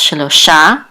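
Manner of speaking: Shelo Sha with the weight on Sha; stress on last syllable. Shown as a demonstration. Teacher showing students the stress on Sha. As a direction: lean on the final Sha of Shelo Sha. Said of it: "The accent is on the last syllable".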